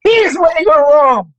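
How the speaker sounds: high, emphatic mock rebuttal; hammed-up patronising husband correcting his wife; condescending. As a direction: swoop up on "but", then draw out the put-down. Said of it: "wanted us to be condescending".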